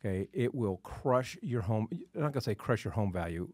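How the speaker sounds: ordinary talk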